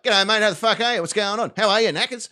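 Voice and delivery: lightly voiced casual Aussie Bond; Aussie James Bond. Bond strolling into the enemy lair, lightly hammed casual Aussie. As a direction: breeze in like a mate at the pub. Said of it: "James Bond's like".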